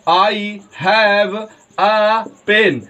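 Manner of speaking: "I have a pen" read with the "a" as a short uh; teacher models the weak article "a"; demo reading. Shown as a demonstration. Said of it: "पढ़ेंगे". (उदाहरण वाक्य "a" को अ की तरह पढ़ना)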